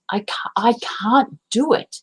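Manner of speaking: a hushed, unvoiced whisper of self-doubt. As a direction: breathe it out like a nagging voice in the head.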